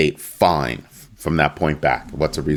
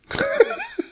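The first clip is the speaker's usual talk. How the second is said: short, very high squeal of a laugh; high-pitched giggle; 4 dB quieter than usual. Acted. Host picturing Ripple set free, gleeful laugh. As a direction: let out a high gleeful titter.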